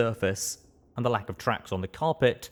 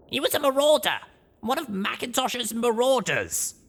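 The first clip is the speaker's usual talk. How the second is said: put-on excited young mare. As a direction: gush like an excited fan. Blackjack hopping with excitement.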